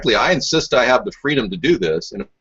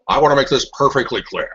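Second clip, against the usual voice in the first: Richard Nixon. Retold or imitated. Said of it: "you sound a lot like Richard Nixon".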